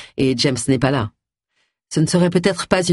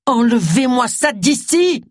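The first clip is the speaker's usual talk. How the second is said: slow, high, through gritted teeth; 7 semitones higher, slower than usual. A narrator's reading. Agatha ordering the specialist to take the snake away, slow and gritted. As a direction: spit it out slowly, teeth clenched. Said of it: "grinça Agatha en serrant les dents".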